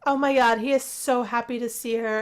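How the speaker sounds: loud excited gush. Real, not acted. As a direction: swoon over the couple. Excited watching couple.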